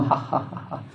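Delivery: soft, unvoiced mock laugh; a light spoken-out "ha ha" laugh; demonstrated jovial laugh. Shown as a demonstration. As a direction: imitate a hearty laugh, but quietly. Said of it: "this very jovial type of laughing".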